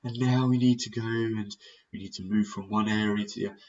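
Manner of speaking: flat, droning delivery; monotone. Shown as a demonstration. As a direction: drone on without any lift. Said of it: "If it's like this".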